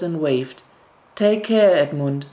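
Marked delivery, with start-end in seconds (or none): 1.1-2.3 sibling waving from upstairs, calling out take care. Acted. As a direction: shout a fond farewell up from the window. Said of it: "called out".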